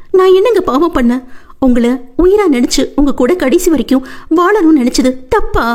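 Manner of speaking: high, wailing lament to God; wife clinging to husband's chest, high wailing. Acted. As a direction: cry out in despair. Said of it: "கதறி".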